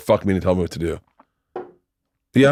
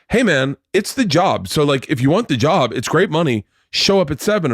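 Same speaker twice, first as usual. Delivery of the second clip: impatient insistence; 6 semitones higher than usual. Retold or imitated. Caller pressures him over the job.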